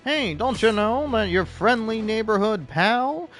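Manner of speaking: high, loud, needling whisper-in-your-ear conspiracy voice; paranoid inner voice. Retold or imitated. Gamer voicing the paranoid voice in his head, high and loud. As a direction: play the sly paranoid voice nagging him about false walls. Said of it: "paranoid-fueled little voice in my head going".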